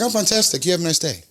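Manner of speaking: high, chipper sign-off; mock pleasantness. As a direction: send her off with put-on cheer. Mock pleasant reply to rude customer.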